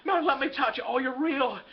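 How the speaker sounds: acted excited cry, no real shout; mild mock yell. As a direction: greet your wife in disbelieving delight. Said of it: "George yells downstairs".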